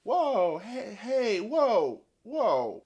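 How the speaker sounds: loud, high startled calls; alarmed whoa. Acted. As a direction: shout whoa to stop everything. Siren stopped, GM calls out.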